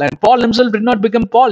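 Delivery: usual speaking voice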